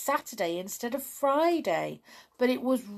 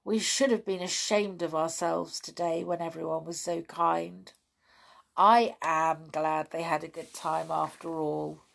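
happily. Acted. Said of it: "said Pipkin happily".

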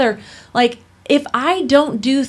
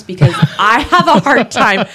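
laughing; 5 dB louder than usual. Real, not acted. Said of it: "laughs mid-sentence".

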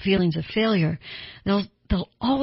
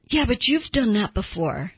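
defensive retort; 4 semitones higher than usual. Retold or imitated. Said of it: "they get defensive and go".

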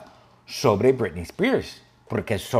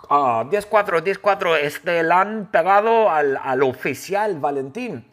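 louder, higher mock police radio call; hammed-up officer calling for backup; urgent radio call; 5 semitones higher, 3 dB louder than usual. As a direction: bark it into the walkie-talkie like a panicked sidekick. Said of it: "él agarra su walkie-talkie y él llama".

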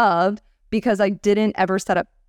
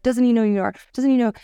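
retold anger; 4 semitones higher, faster than usual. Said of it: "And he was so angry".

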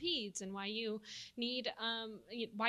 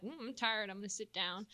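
sleepy cow voice with a Texas twang; Texas cow accent; 4 dB quieter than usual. Pretend. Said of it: "I guess that's my cow accent".

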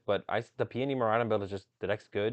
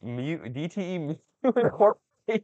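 hard sell ad; 5 semitones higher, 7 dB louder, slower than usual. Acted. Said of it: "sounds like a car salesman".

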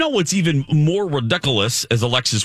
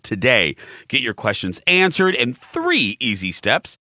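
ad read. Real, not acted. Reads a dental ad.

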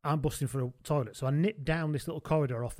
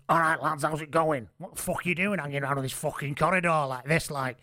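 voice like a singer's. Retold or imitated. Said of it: "essentially become a singer".

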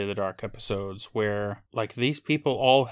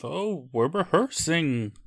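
lightly acted, higher and drawn-out excuse; mock excuse; 5 semitones higher, slower than usual. Co-host mocks the villain's all-purpose excuse, mock explaining. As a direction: imitate a flimsy cover story. Mocking a character's flimsy excuse.

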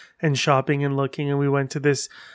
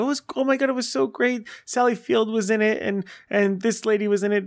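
gushing about a movie; 5 semitones higher than usual. Retold or imitated.

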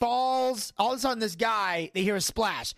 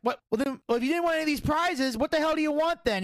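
exasperated disbelief; 7 semitones higher than usual. Retold or imitated. Owner baffled by refusal.

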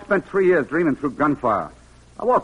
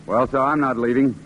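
ordinary delivery

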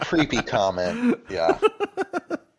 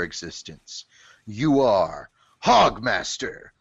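dramatic poem reading; 3 semitones lower than usual. Acted. Host reading the Hogmaster bottle poem to the others, mock-solemn recital. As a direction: intone it grandly, building to the last lines.

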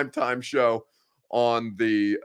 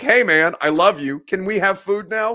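higher, louder, eager happy dog voice; 9 semitones higher, 8 dB louder than usual. Retold or imitated. Host imitating his begging dog, higher and louder. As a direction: gush like a dog begging sweetly for dinner. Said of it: "The dog would be like".

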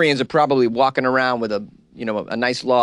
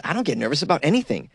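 climbing higher into a shrill boast; mock quote rising to a squeal; 8 semitones higher than usual. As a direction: build from mild to squealing I'm rich, bitch. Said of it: "He says".

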